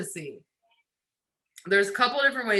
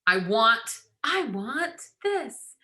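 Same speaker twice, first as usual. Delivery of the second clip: the wrong way, mock pleading; needy wanting; much slower than usual. Shown as a demonstration. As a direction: drag it out like begging.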